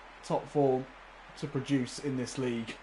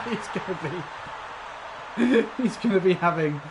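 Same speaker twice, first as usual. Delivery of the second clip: words pushed out through real laughter, higher and louder; laughing while talking; 5 semitones higher, 5 dB louder than usual. Real, not acted. Joking to viewers about the striker, laughing through it. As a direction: try to finish the sentence while cracking up.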